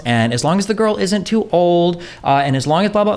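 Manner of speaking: high, sing-song mock of a fussy poly partner. Mocking people who set fussy poly rules, high sneering voice. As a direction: pitch way up and sneer through the list of rules.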